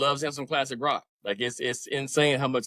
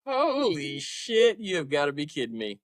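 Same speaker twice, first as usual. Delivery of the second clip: stunned disbelief; incredulous. Real, not acted. Reacts to conspiracy theory.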